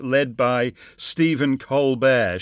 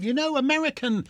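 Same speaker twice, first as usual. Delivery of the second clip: mock smug comedian; 4 semitones higher than usual. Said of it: "Colbert guys who think".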